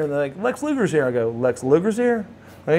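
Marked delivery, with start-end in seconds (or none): 0.4-1.0 high-pitched, imitated breaking of big news; acted-out eager announcement; excited announcement. Staff announce big news to him. 1.3-2.3 surprised echo. Retold or imitated. He echoes the news in surprise.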